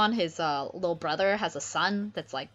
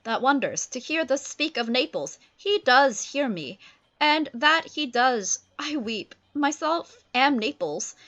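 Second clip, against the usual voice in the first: Ferdinand's voice; 6 semitones higher, 4 dB louder than usual. Acted. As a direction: lament his father grandly. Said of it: "Ferdinand's like".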